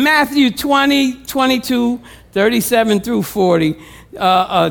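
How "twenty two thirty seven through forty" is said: normal talking voice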